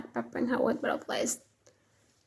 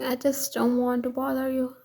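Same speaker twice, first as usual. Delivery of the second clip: stuttering. Acted.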